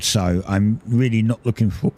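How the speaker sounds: talking through a burp; a burp breaks the words; burping while talking. Real, not acted. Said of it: "excuse me, I'm burping".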